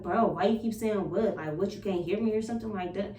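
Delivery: lightly imitated attitude from a brother. Brother complaining she keeps saying what, mildly testy. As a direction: retell his testy questioning with a touch of attitude. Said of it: "he got an attitude".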